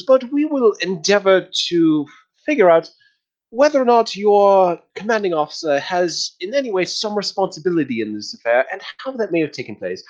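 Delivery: insufferably courteous host; customer service voice. Acted. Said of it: "in a really insufferable customer service, uh, voice".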